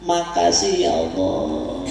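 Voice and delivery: slow, low, drawn-out thanks to God; tearful thanks. Shown as a demonstration. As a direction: give thanks slowly and low, overcome with gratitude. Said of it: "ini bahasa kita". (bersyukur haru, pelan dan rendah)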